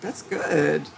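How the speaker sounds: drawn-out, rising ooh of mock surprise; imitating a pleased, surprised creator; pleasantly surprised. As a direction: act out delighted discovery, slowly savored. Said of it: "being surprised and saying".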